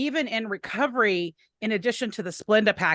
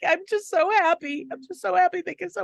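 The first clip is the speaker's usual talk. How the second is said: retold sobbing; 8 semitones higher than usual. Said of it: "I promptly burst into tears, like, just sobbing uncontrollably".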